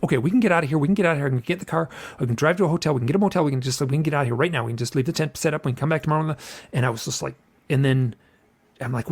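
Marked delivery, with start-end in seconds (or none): 0.0-6.4 rapid, run-on escape planning; mildly panicked, talking through a getaway; retold panic. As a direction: reenact anxious babbling without pauses. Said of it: "I kinda pan".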